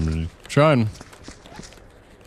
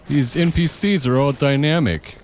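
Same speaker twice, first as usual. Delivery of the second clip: Todd Howard; 8 semitones higher, slower than usual. Retold or imitated. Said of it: "clips of him saying".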